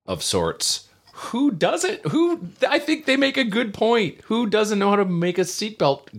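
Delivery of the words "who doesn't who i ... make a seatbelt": squeaky high incredulous whine; mock it in a squeaky voice. Mocking voice, very high.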